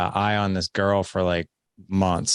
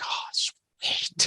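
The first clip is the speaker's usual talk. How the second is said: stunned whisper; 7 dB quieter than usual. Retold or imitated. His own quoted reply, stunned.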